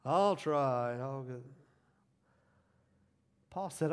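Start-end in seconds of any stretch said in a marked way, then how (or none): 0.0-1.4 half-hearted agreement. Acted. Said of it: "or are you like".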